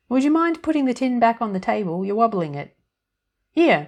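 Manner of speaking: put-on high, loud, chirpy little old woman; fairy godmother voice. A narrator's reading. Tiny woman in the biscuit tin greeting Annie, high and chirpy. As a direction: pipe up brightly from inside the tin.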